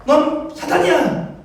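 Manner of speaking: 높고 느리게 힘주어 몰아붙이기; 칭찬하다 돌변해 단죄하듯 외치기; 돌변한 질책. Acted. Sudden rebuke right after the praise. (갑자기 높은 소리로 꾸짖듯)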